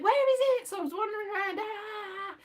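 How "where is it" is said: puzzled. Retold or imitated. Lost looking for the castle.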